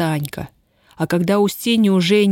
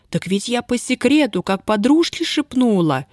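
mournful whimper; 6 semitones higher than usual. Acted. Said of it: "горестно подвывала Танька".

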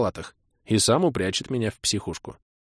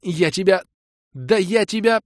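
put-on high, rising choked threat as a young woman; too angry to finish the sentence; sputtering fury; 11 semitones higher than usual. Kira sputtering in anger.

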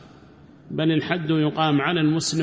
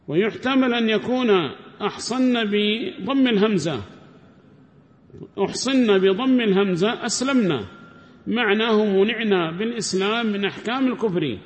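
reading the text aloud; 5 semitones higher than usual. Acted. Teacher reads the commentary to his class, formal reading voice. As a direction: recite the scholar's words like a text read to students.

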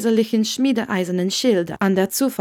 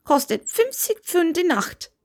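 put-on Scottish old man; 9 semitones higher than usual. A narrator's reading. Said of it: "den schottischen Akzent hören".

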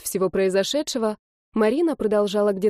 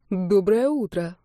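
slow, kindly greeting; a polite young man greets an angry girl, kindly; friendly good morning; slower than usual. Acted. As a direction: greet her gently and politely, slowly. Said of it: "очень доброжелательным тоном".

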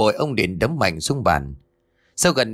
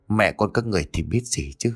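furious threat; 2 semitones higher than usual. Acted. Father raging at wife and son.

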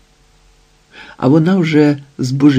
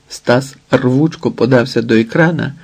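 ordinary delivery

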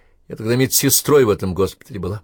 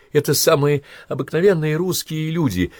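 higher, tearful line with a smile heard in it; smiling through tears; 9 semitones higher than usual. A narrator's reading. Natalya speaks of her comrades, smiling through tears. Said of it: "она улыбнулась сквозь слёзы".

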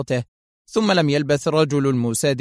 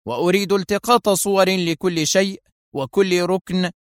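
commanding; 5 semitones higher than usual. Acted. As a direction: give orders that allow no reply. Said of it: "بلهجة آمرة".

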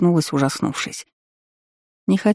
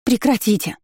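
high, desperate cry to stop; shouting with all her might; 7 semitones higher than usual. A narrator's reading. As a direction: yell at them to stop, high. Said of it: "закричала, что было сил".

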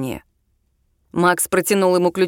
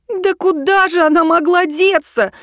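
desperate; 9 semitones higher, 3 dB louder than usual. A narrator's reading. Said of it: "В отчаянии, чуть ли не со слезами".

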